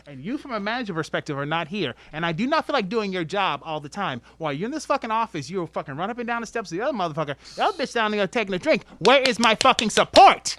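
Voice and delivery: fast, building into a loud angry rant; retold tirade at an absent manager, fast and heated. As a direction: rant at the manager who never shows up, rising to a shout.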